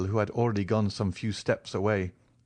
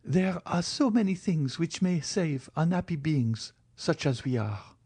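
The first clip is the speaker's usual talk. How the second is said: put-on higher, pleading young woman; Valentine's voice; 8 semitones higher than usual. A narrator's reading. Valentine's lines.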